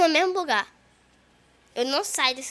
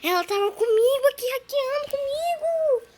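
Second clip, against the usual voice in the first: indignant; 11 semitones higher, 5 dB louder than usual. Real, not acted. Complaining friend was caught.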